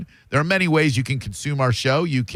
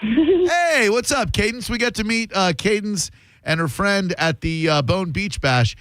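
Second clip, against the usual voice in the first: higher friendly tone; 10 semitones higher than usual. Pretend. Talks to pretend girl.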